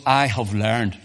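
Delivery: preacher's emphatic quote, weight on "I". Retold or imitated. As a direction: stress on "I" in "I have learned". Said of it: "so Paul says emphatically".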